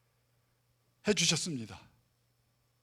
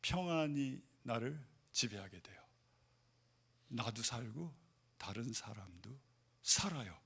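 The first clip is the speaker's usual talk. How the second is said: hushed, softer, calmer; soft whisper; 5 semitones lower, 8 dB quieter than usual. Real, not acted. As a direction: drop to a near whisper of peace. Calm contrast after preaching. (조용히 속삭이듯)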